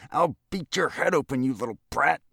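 high, loud furious threat; angry yell. A narrator's reading. Infuriated lobbyist to the elevator boy, angry yell. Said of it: "followed by an angry yell".

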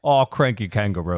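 slowed Aussie "Oh, cranky kangaroo"; bad Australian accent. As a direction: try to sound Australian, slowly. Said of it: "Listening to you try an accent".

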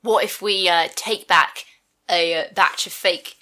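put-on Cockney accent slipping to Essex. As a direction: speak in a rough Cockney accent. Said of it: "My Cockney accent's gone a bit Essex".

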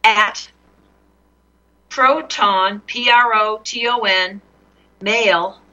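slow, letter by letter spelling; dictating. Real, not acted. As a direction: spell it out slowly for writing down. Dictating email address letter by letter.

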